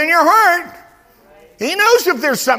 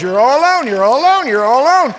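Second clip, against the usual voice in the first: mock taunting voice; 6 dB louder, faster than usual. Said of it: "a voice that says".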